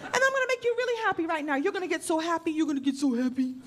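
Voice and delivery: lightly voiced doting mommy, cooing to a boy; a hint of baby-talk mommy. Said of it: "talk to them like you're their mommy".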